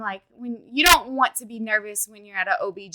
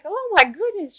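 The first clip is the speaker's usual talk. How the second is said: kind, concerned nurse; 7 semitones higher, 4 dB louder than usual. Retold or imitated. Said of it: "She was so nice".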